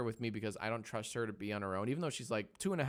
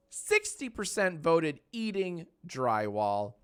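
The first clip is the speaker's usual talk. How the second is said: slow dramatic announcement; 6 semitones higher, 6 dB louder, slower than usual. Acted. Announcing poll result.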